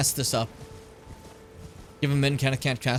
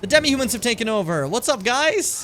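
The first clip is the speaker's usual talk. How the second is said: excited; 9 semitones higher, 4 dB louder than usual. Acted. Greeting hostile enemies.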